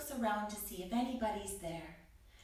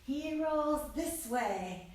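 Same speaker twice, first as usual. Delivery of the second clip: slow slithering narration; slower than usual. Acted. Acting out slithering snake.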